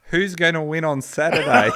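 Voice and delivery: loud, high shout from the crowd; audience scream. Retold or imitated. Heckler in the audience screams a question at the speaker, loud high shout. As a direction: yell it out over the room. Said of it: "screams out".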